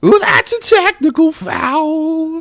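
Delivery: very high, swooping sing-song, "foul" stretched long. Showing another speaker a Whitey impression: Whitey voice. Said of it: "I can do Whitey from Eight Crazy Nights".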